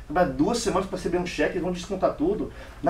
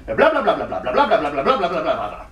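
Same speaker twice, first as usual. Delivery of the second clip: louder Italian-sounding babble; rapid Italian gibberish; 2 semitones lower, 6 dB louder than usual. Retold or imitated. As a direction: rattle off gibberish like an Italian boss. Italian boss speaks unintelligible Italian. (o dono fala italiano incompreensível, imitação leve)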